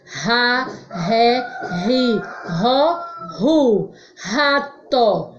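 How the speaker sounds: "Ra, ré, ri, ró, ru. Rato" with h-like R; strong R. Shown as a demonstration. Teacher shows what strong sound is, h-like R in "Ra, ré, ri, ró, ru. Rato". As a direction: separate syllables, each R pronounced as H. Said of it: "Som forte".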